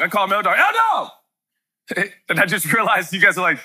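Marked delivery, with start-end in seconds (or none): 0.6-2.1 much higher yell of the nickname; dad yelling for his son; yelling a name. Retold or imitated. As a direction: holler the name through the house. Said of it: "yell like that in your house".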